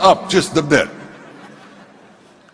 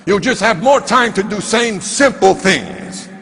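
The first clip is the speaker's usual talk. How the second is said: lightly acted forceful mentor, slightly raised voice; stern challenge. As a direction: press each demand home like a tough coach. Small mentor sternly challenging the speaker.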